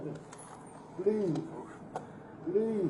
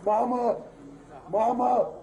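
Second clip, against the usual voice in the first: desperate strained cry of Mama; real anguished call, voice pushed louder; calling for his mother in real distress; 2 semitones higher, 3 dB louder, slower than usual. Real, not acted. Man pinned, pleading, cannot breathe.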